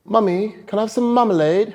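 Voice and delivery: put-on high-pitched British child asking mummy; hammed-up British accent. Shown as a demonstration. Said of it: "I'm gonna do my British".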